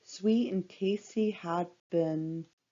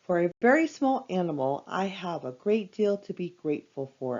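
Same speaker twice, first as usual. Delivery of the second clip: fast, nervous rush of words. Acted. Piglet answers Pooh nervously, rushing through his words. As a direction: hurry it out nervously, almost breathless. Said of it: "continued in a rush".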